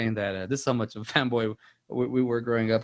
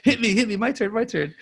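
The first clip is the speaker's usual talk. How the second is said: high, excited, imitated kid's pleading; eager begging; 10 semitones higher than usual. Friend begging to be hit by powers, mock eager. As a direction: plead for a go, pitched up and playful. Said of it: "and I'm like".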